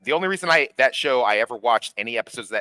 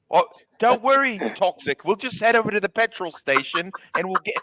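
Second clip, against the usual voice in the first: mock cheery villain; 9 semitones higher than usual. Voicing character's cheerful plan.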